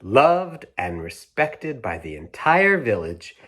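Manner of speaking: slowing storybook ending, fading out; bedtime-story finish; reading to children. A narrator's reading. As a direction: close the story gently.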